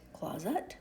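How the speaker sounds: "closet" ending in UT, rising; schwa trial pronunciation. Shown as a demonstration. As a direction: try "closet" as CLOZ-UT, tune going up. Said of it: "we could say ut".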